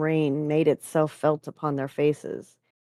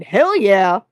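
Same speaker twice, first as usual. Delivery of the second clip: loud, whooping cheer; excited shout; 4 semitones higher, 11 dB louder than usual. A narrator's reading. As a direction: shout it with gusto. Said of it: "who shouted".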